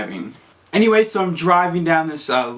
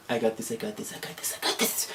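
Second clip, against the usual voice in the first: softer and softer, down to a whisper; whispered self-pep talk; 4 semitones lower, 12 dB quieter than usual. Retold or imitated. Calming herself while parking, fading to a whisper. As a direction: whisper it to yourself to stay calm. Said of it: "I'm like".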